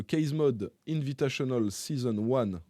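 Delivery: French speaker putting on an English accent; light English accent on a contest title in a French tech video. Shown as a demonstration. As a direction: say the English name with his best English accent. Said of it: "mon accent anglais".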